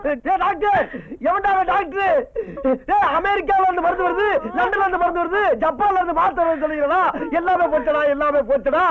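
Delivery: hammed-up outraged yelling at the doctor; ranting shout. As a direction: rant at them, voice pushed up. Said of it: "ஏன் வீணா கத்துற?". (ஆவேசமாக கத்தல்)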